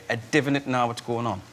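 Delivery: learned North Shields phrase, lightly imitated; North Shields accent. Shown as a demonstration. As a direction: recite a taught Geordie dialect line. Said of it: "he taught me to say".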